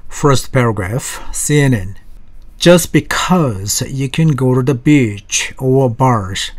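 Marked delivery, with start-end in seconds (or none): 2.6-6.5 very slow, every word laid out for learners; slow English model sentence for a class; slow model reading. Shown as a demonstration. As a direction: read it slowly so students can follow. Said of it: "발음 보시겠습니다".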